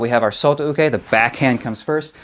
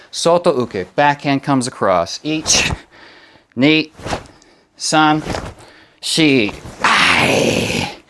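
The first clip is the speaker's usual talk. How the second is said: sharp martial arts commands; slower than usual. Shown as a demonstration. Karate teacher counting drill.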